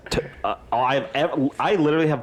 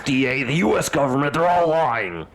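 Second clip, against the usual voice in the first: building to a higher, strained yell; mock ranting shout; 4 semitones higher than usual. Host rails at the government over oat milk, mock-furious shout. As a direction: rant it, rising into a hammed-up holler. Mock conspiracy rant, going Super Saiyan.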